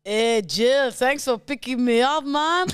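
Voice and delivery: imitating a friend's Jamaican-ish accent; copied put-on accent, later called Jamaican. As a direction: have a go at a lilting Jamaican-style accent. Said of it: "Let me, let me copy".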